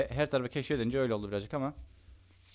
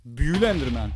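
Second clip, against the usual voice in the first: excited call; 8 dB louder than usual. Real, not acted. Enchanted Enderman spotted.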